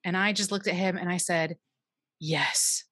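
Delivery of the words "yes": slow, earnest and heartfelt thanks; earnest sincerity. Retold or imitated. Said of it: "in complete sincerity".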